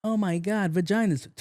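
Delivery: mock gasp. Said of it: "I was like".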